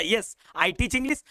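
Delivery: slow, clear yes answer; slow demo answer; slow model answer. Shown as a demonstration. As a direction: say it word by word. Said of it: "तो बोलूंगा".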